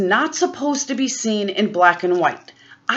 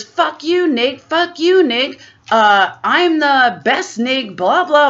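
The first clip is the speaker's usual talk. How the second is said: mock rant; 4 semitones higher, 4 dB louder, slower than usual. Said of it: "starts ranting and raving".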